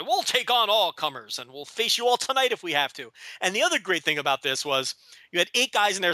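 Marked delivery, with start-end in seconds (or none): 0.1-3.1 put-on babyface promo. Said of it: "did the babyface thing and said".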